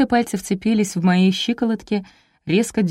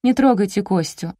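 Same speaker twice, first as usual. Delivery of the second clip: ordinary delivery, nothing marked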